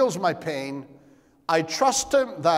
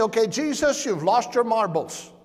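higher, louder, mock disbelief at Jesus; incredulous listener; 5 semitones higher, 4 dB louder than usual. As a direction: play the doubter who can't believe it. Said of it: "Now you say".

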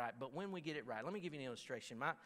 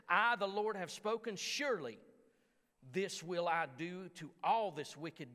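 preaching God's words; 2 semitones higher, 3 dB louder than usual. Acted. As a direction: thunder out the Lord's judgment. Reads scripture at full force.

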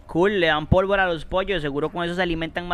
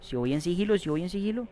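hushed and quick, plotting a stealth kill; stealthy murmur; 9 dB quieter, faster than usual. Real, not acted. Gamer whispering to himself while sneaking up on an enemy, hushed.

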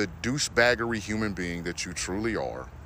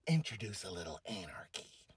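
whiny mock quote; 6 semitones lower, 12 dB quieter than usual. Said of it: "That's what you sound like".

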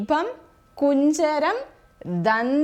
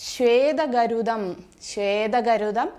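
slow dictation; slower than usual. Shown as a demonstration. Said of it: "അരയന്നമാണ്".

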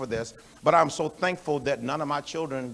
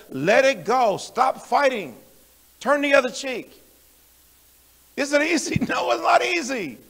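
urgent preaching; 8 semitones higher, 4 dB louder than usual. Real, not acted. Preacher exhorting the congregation.

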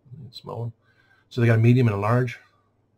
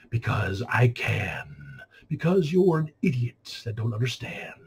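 sarcastic. Acted. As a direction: stretch the answer out with mocking disdain. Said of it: "you push my sarcasm even further".

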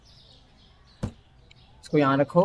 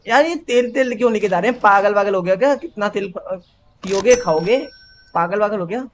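mock outrage; 4 semitones higher than usual. Shopkeeper outraged at aunt's oil.

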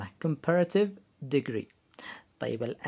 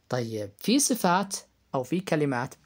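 whispered aside. Real, not acted. Teacher aside.

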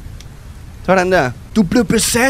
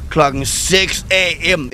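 slow, punched-out dad line; drawn-out, over-emphatic announcement; emphatic mock shout; much slower than usual. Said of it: "Ingen grund til at råbe".

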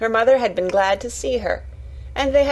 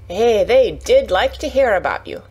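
louder Yorkshire lass with emphatic lilt; eager Yorkshire Martha; 5 dB louder than usual. Acted. Martha telling Mary her family's interest, eager Yorkshire voice. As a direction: pass on the news with relish.

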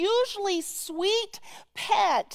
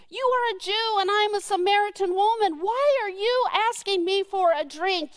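higher, quick, incredulous challenge; sharp disbelieving retort; snarky; 5 semitones higher, faster than usual. Acted. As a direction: fire it back at him, indignant. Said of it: "You can almost hear the tone in her voice".

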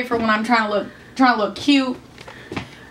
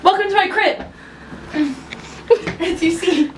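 higher, lightly bubbly vlogger tone; bubbly sorority girl; 8 semitones higher than usual. Pretend. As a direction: show off your room like an influencer. Room tour vlogger voice.

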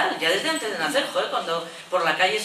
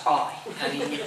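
slow mock-sweet coo, softer; tender coo; 6 semitones lower, 4 dB quieter, slower than usual. Neighbour cooing at an unborn girl, mock tender. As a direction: drag out the cariño sweetly. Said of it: "cambia de tono".

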